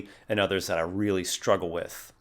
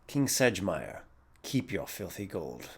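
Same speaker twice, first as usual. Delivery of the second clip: changed-posture character voice; 2 semitones lower, 7 dB quieter than usual. Shown as a demonstration. Player rejecting the king's offer, quiet contempt. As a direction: refuse quietly, dropping soft on the gold. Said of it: "change your posture and your facial expression".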